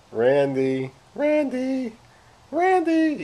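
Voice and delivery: very high, sweet, sing-song nice-talking voice. Calling randy by name again, talking nice. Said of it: "Even when I talk nice".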